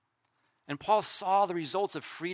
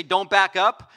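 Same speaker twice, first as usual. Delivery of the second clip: warning; 7 dB louder, slower than usual. Retold or imitated. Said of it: "They always say".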